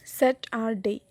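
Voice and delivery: স্যাটারডে by syllable, স্যাট weighted; stress on first syllable. Shown as a demonstration. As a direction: lean on স্যাট, lighten the rest of স্যাটারডে. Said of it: "অন্য দুইটা unstress".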